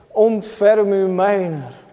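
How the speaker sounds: drawn-out pleading cry for mercy; slow earnest plea. Retold or imitated. Preacher urging youths to cry out, slow earnest plea. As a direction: beg for mercy, slowly. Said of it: "Dat je zegt".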